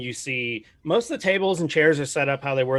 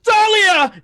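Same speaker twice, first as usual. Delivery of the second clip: high frantic shout of her name; high panicked yelling of the name; calling out; 10 dB louder, much slower than usual. Acted. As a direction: yell the name, desperate. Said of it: "And he's like".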